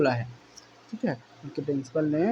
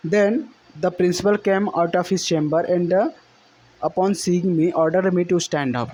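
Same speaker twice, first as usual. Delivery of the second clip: slow, deliberate reading aloud of the English passage; slow text reading; much slower than usual. Shown as a demonstration. Teacher reading the textbook passage to students, slow and deliberate. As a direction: read each phrase out slowly for the class.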